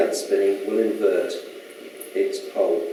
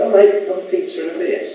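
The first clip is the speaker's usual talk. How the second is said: higher, louder matey hello to the guards; cheery greeting; 8 semitones higher, 4 dB louder than usual. Acted. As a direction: greet them like old pals down the pub. Greeting guards on other side.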